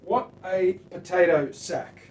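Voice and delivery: loud, drawn-out mock disdain; loudly mock the sad base model; mock scorn. Scorning the plain base model guitar, loud mock disdain.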